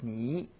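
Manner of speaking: "ni" in a low, dipping third tone; Mandarin third tone. Shown as a demonstration. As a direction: dip low on "ni". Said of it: "that's third tone in Mandarin".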